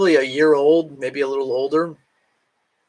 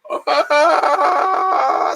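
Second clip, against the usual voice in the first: cracking laugh; 12 semitones higher, 4 dB louder than usual. Real, not acted. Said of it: "See, it's cracking".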